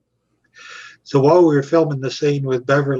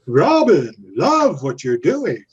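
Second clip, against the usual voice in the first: instant gushing; slower than usual. Retold or imitated. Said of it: "quick as that, he goes".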